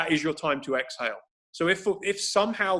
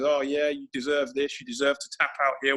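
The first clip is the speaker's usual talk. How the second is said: tempting inner voice. Retold or imitated. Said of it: "that temptation that says".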